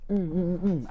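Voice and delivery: fake hit grunts. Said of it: "I act like".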